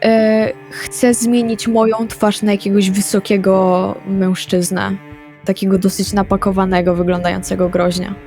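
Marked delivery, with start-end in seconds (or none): none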